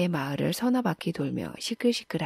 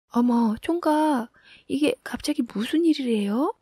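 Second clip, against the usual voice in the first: startled widow; 7 semitones higher, 3 dB louder than usual. A narrator's reading. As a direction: react with a start to a sudden visitor. Widow startled by intruding bachelor.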